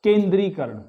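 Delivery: केंद्रीकरण with a long ई, said clearly as the correct form; correct pronunciation. Shown as a demonstration. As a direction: model pronunciation for students. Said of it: "शुद्ध होगा यहां पर".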